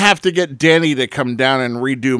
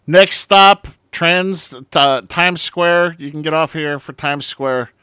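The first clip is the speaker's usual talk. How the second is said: train conductor calling; 3 semitones higher, slower than usual. Pretend. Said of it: "he's gonna sound like he's a train conductor".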